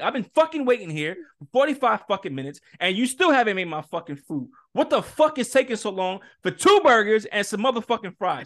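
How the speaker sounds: retold cursing rant; going off. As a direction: re-enact a fed-up customer's complaint, pushing the swearwords. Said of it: "Bro, I was going off".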